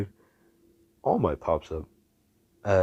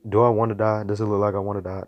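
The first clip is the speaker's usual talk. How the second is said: exasperated; 3 semitones higher, 5 dB louder, faster than usual. Acted. Irritated rhetorical questions in retold dialogue.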